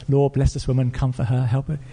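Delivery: short, measured petitions, mildly soothing; gentle prayer. Retold or imitated. Pastor prays for the crying caller, gentle prayer. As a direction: imitate a pastor praying gently. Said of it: "he starts off with his gentle prayers".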